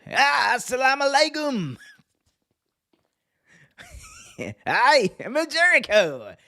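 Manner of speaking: hammed-up high wrestler greeting; mock showman booming to the crowd, laughing between lines; Jericho. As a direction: ham it up, big drawn-out stage cries. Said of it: "Jericho's gonna ham it up".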